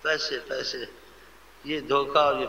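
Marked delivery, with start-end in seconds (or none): 0.0-0.8 fawning flattery. Retold or imitated. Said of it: "اس کو ایسا بولتے ہیں۔".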